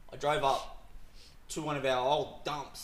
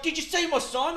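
mock annoyed culler; 14 semitones higher, 7 dB louder than usual. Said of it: "he's like".

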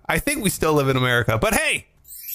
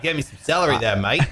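mock Aussie accent, rising on mate; put-on Australian delivery; fake Australian; 3 semitones lower, faster than usual. Shown as a demonstration. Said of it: "If you want a fake Australian".

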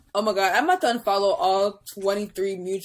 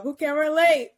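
imitated yell; 5 semitones higher than usual. Friend recalls a rapper's song, imitating his yelled hook. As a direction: yell the hook, then whoop high. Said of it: "he literally yelled out".

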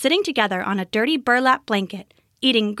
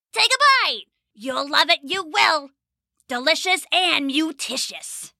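high, eager goblin coaxing; 5 semitones higher than usual. Acted. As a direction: wheedle her into tasting it. Goblins urging her to eat.

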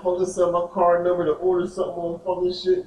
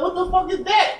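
retold disbelief; 13 semitones higher than usual. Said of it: "So I'm like".

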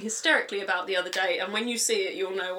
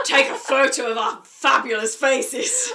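excited shout; 3 semitones higher, 7 dB louder, slower than usual. Retold or imitated. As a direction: shout it with drunken glee.

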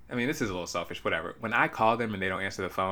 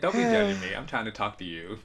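higher, defensive mock mom; imitating mom; 5 semitones higher than usual. Daughter mimicking her gossiping mom, defensive high whine. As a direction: whine back like a mother caught gossiping. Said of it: "she said".

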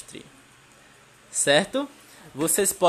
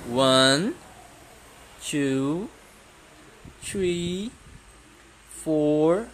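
teacher counting; much slower than usual. Shown as a demonstration. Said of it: "de um a dez".

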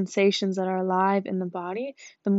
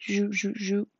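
imitated zooming "zoop" noises; cartoon gadget zoom sound; magnifying sound effect. Shown as a demonstration. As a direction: make a playful zoom-in noise, repeated. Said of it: "that's my magnifying sound".

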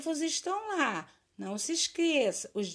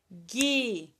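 "Guitarrista" as gui, tar, ris, ta with long gaps; syllable by syllable. Shown as a demonstration. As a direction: draw out each syllable separately. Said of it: "Separa as sílabas".

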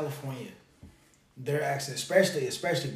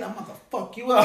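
louder, higher, fast mock threat with a laugh; California tough guy threat; 7 semitones higher, 4 dB louder, faster than usual. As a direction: bark it fast like a California brother picking a fight. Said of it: "if somebody calls you a buster".

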